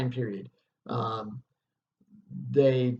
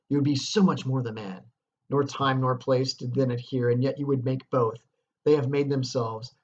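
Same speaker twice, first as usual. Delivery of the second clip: louder, driving challenge on "man"; fierce dramatic reading; 4 dB louder than usual. Acted. Teacher reads Lady Macbeth shaming Macbeth, fierce declamation. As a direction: hurl the accusation like a stage actress.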